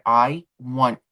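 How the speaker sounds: measured, pausing before the last word; retold stern face-off; deadpan demand. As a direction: state it evenly and deliberately. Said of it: "I looked her dead in the face".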